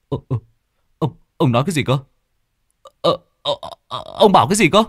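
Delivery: high, stammering panic; young master Tẩy panicking over the money; panicked stammer. Acted.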